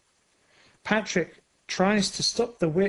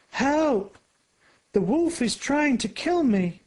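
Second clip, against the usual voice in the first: put-on girl screaming; 8 semitones higher than usual. A narrator's reading. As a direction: shriek it out in terror. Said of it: "a girl screams".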